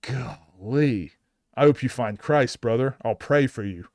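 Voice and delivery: a hint of a preachy churchgoer, drawn out; mock pious reply. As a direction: mimic a smug well-wisher at a ballgame. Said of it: "And you just go".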